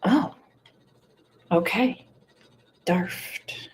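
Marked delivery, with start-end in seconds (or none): 2.8-3.7 "Darft." whispered with a long ah; quiet final try at "Darft."; whispered British try. Shown as a demonstration. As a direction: breathe out "Darft." carefully. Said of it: "Kat's telling me how to say it".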